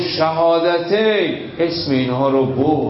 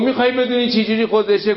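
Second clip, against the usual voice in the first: teasing retort; 5 semitones higher, much faster than usual. Acted. Soldier voiced answering Muawiya.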